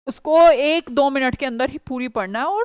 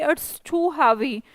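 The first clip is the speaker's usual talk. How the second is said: slow model sentence; much slower than usual. Shown as a demonstration. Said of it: "teacher gives the English".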